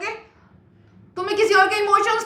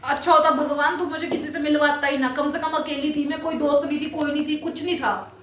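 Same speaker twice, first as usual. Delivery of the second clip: mock tearful lament; 3 semitones lower, 6 dB quieter than usual. Friend fakes tearful lament.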